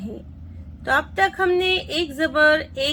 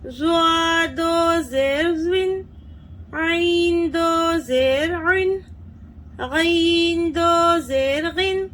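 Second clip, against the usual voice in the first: rhythmic sing-song spelling chant; teacher chanting the nunation table; qaida recitation drill; much slower than usual. Shown as a demonstration. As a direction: chant each letter for children to repeat. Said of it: "देखिए कैसे पढ़ेंगे।".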